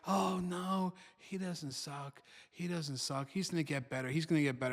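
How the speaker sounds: quiet, gentle reassurance; soft reassuring mom. Retold or imitated. Mom reassuring dad about their son, softly. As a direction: soothe the worried dad softly. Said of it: "mom used to say".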